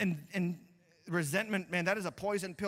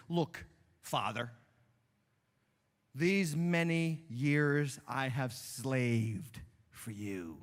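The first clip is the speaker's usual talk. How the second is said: resentful son; 5 semitones lower, much slower than usual. Acted. Preacher voicing the resentful son.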